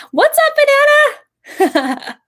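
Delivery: very high, loud squealing hello; excited squeal. Real, not acted. Streamer squealing hello to viewer Banana, delighted. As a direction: squeal a delighted greeting to a friend.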